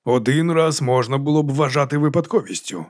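understated sermonising; measured, mildly moralising; preaching tone. A narrator's reading. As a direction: lecture like a preacher, lightly. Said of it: "сказав барон Рікард проповідницьким тоном".

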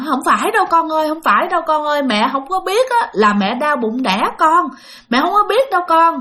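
high, pleading mother, close to tears; a retold high tearful plea. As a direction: imitate a grandmother begging through tears. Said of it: "cái bà nội khóc".

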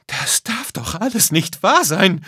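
high, exasperated woman's cry; shrieked disbelief, high-pitched; outraged shout. A narrator's reading. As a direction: complain loudly at the top of the voice. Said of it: "schrie eine Frau".

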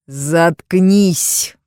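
husband yells to silence his wife; yelled. Acted. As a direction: snap it out as a furious order. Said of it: "заорал мужчина".

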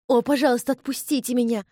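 high, pleading cry, narrated; sobbing plea. A narrator's reading. Elizabeth begging Ian to release her, tearful plea. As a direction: beg to be let go, a touch tearful. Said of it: "вдруг всхлипнула".

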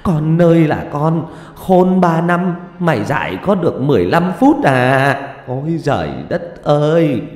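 high, loud lament to the heavens; loud wailing. A narrator's reading. Mother crying up to heaven over her daughter, loud wailing. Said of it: "giơ lên mà gào lớn".

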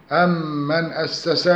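أم من joined with a doubled nasal m; demonstrated tajweed merging. Shown as a demonstration. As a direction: recite أم من as one, humming the meem. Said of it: "هكذا".

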